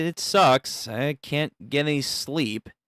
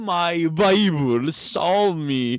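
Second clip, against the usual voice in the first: awed whisper-prayer; slower than usual. Acted.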